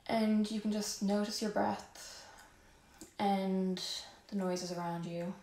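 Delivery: guided yoga breathing. Real, not acted. Yoga teacher guiding the class to notice their breath, calm and soft. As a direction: ease them gently into the breath, unhurried.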